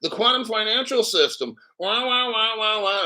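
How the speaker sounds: mock the other channels like crybabies; sneering parody of doom talk; mocking whine. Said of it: "all that fucking dumbass shit".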